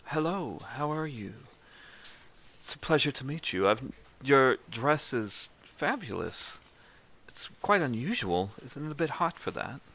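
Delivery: attempted Spanish accent. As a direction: greet graciously in a shaky Spanish accent. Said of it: "never be able to do a Spanish accent".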